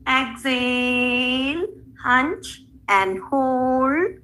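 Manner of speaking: slow, stretched-out yoga instruction; slow breath cues. Shown as a demonstration. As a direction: draw out each word calmly. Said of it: "yoga breath cue".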